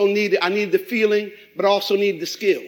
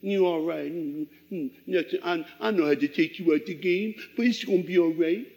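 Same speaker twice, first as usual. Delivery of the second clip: soft, hushed, lower coddling voice; mock soothing; 4 semitones lower, 6 dB quieter than usual. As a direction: coo it like a pampering mom. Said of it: "they don't come over there and say".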